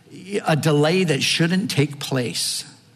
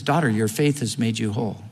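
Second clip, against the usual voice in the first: gentle Jesus; 4 semitones lower, faster than usual. Retold or imitated. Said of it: "But Jesus says".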